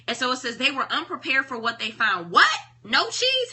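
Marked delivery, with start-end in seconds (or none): 2.3-3.5 high, loud shocked yell. A narrator's reading. Hem finds the cheese gone, yelling high. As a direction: cry out in disbelief. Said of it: "Hem yelled".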